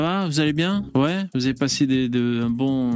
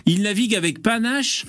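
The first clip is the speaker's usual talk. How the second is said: grand entrance announcement. Acted. Host's grand guest introduction.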